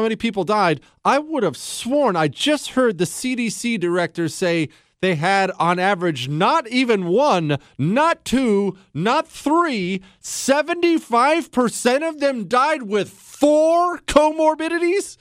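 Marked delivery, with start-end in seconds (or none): 6.3-15.2 climbing higher to a shocked question; incredulous build. Pretend. Host building to disbelief over the director's statistic, rising higher. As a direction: stack it up, ending in disbelief.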